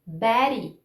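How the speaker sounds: "Betty" with the T tapped lightly; quick tongue tap for the T of "Betty"; flap T demo. Shown as a demonstration. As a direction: model "Betty" with an American flap in the middle. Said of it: "vamos ver alguns exemplos aqui".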